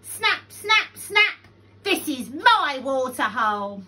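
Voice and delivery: loud, high possessive bark; aggressive snapping. A narrator's reading. Crocodile claiming his water hole, loud and snappish. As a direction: snap and claim it loudly.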